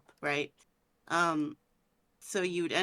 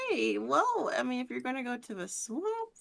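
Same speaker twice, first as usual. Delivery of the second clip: too happy; 3 semitones higher than usual. Real, not acted. Game master hearing players pick the swamp, a little too happy. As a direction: relish the players' choice a bit too much. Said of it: "sound a little too happy with that tone".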